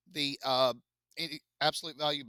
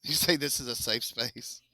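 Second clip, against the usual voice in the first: whisper. Real, not acted. Whispered joke to class.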